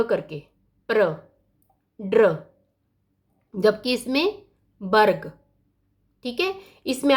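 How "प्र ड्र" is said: प्र and ड्र, each one joined syllable; blended clusters. Shown as a demonstration. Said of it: "कैसे हम पढ़ते हैं".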